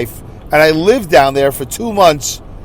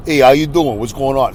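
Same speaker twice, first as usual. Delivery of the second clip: a broad Brooklyn greeting, played up; exaggerated own accent; 4 semitones lower than usual. Shown as a demonstration. Showing viewers how he sounds. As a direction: ham up his own New York accent. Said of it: "See, I know I sound like this".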